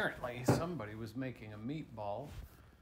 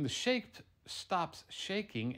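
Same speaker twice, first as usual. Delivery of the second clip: usual speaking voice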